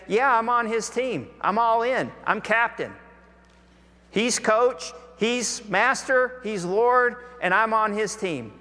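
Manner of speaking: acted team-pride proclamation, pitched high; bold declaration. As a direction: declare allegiance in punchy, separate phrases. Acting out a bold public declaration.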